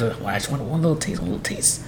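soft, sneaky plea fading into a whisper; hushed begging. Acted. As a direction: beg quietly for a tiny favor. Dog begging owner to let it bite.

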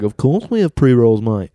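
put-on Australian accent. Clerk reassuring a customer, in a wobbly Australian accent. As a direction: imitate a clerk with an accidental Australian twang. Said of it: "Nope, that's Australian again, too".

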